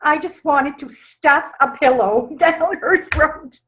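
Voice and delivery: words breaking into real laughter; laughing while talking. Real, not acted. Speaker laughing at her aunt's outburst, laughing through words.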